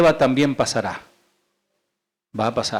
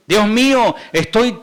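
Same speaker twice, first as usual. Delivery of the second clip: higher, louder "Dios mío"; psalmist's cry; 6 semitones higher, 3 dB louder than usual. Acted. Preacher voicing the psalm to the congregation, raised cry.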